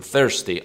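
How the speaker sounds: "Thirsty" with the th of think, tongue tip between the teeth. Shown as a demonstration. Teacher showing students the th in "Thirsty". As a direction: push air past the tongue on "Thirsty". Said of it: "زبون میاد بین دو تا دندون".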